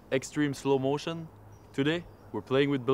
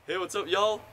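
put-on southern accent; 6 semitones higher than usual. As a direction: lay on a Southern American accent. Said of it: "that's kind of my southern accent".

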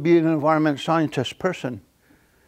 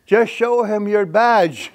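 slow, loud, high call through laughter; laughing yell; 6 semitones higher, 4 dB louder, slower than usual. Retold or imitated. Ron calling out to the fleeing woman, laughing. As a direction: tease her while cracking up. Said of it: "Ron yelled".

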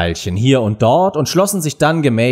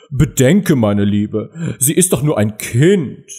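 mildly timid king; slower than usual. A narrator's reading. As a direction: plead hesitantly, as a meek husband. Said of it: "sagte zaghaft".

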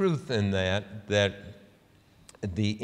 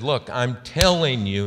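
louder, emphatic retold insistence; intense; 2 semitones higher, 6 dB louder than usual. Senator setting a reporter straight, intense. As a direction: imitate someone heatedly insisting. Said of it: "She really got, uh, intense".

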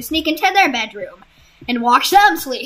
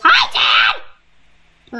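put-on child's greeting; 3 semitones higher than usual. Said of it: "then she says".

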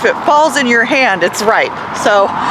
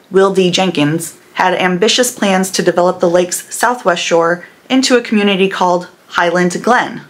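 steady, even history voiceover; documentary narration. Acted.

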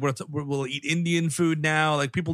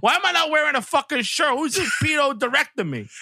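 tags; 9 semitones higher than usual. Acted. Kid actor complaining in character.

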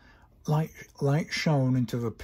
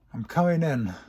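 announcing entry; 3 semitones higher, 5 dB louder than usual. Acted. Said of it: "Twilight's voice announced".

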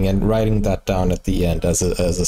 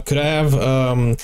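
mock applicant; much slower than usual. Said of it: "You're like, um".

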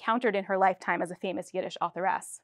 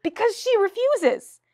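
firm playwright; 10 semitones higher, 4 dB louder, slower than usual. Acted.

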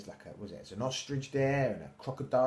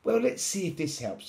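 high, loud helpful voice; little mouse; 8 semitones higher, 5 dB louder than usual. A narrator's reading. Mouse trying to help Little Lion, high mouse voice. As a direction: pipe up as a mouse. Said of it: "said Mouse".

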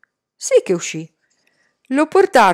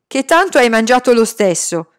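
retort; 3 semitones higher, 5 dB louder than usual. Acted. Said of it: "lo rimbeccò Salman".

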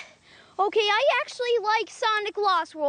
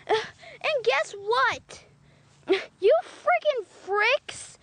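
fake crying; slower than usual. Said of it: "He's crying".

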